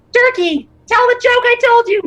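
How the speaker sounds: little squeaky far-off shout, very high-pitched. The game master voices a tiny voice calling from over the lava: Sprinkles' tiny yelling voice. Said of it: "hear a tiny voice from over the lava yell".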